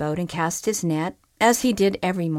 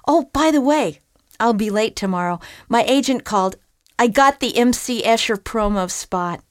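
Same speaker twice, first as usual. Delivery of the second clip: higher, chatty; friendly flounder; 4 semitones higher, 4 dB louder than usual. Acted. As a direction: ask a friend about her day. Flounder mentions his gig.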